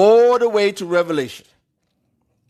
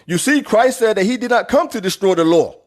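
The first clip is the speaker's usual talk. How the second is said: higher, mocking voice of the know-it-all critics; 4 semitones higher than usual. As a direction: parody the people who quote one line, pitched up. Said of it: "And then you get people say".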